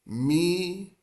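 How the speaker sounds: miércoles broken into MI, ER, CO, LES with pauses; syllable by syllable. Shown as a demonstration. Spanish teacher sounding out a four-syllable word, syllable by syllable. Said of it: "we have a four-syllable word".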